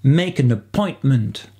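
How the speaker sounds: "appointment" slowly, with the weight on -POINT-; stress on second syllable. Shown as a demonstration. Teacher slowly modelling the stress in "appointment" for learners. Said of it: "Avec l'accent sur la deuxième syllabe".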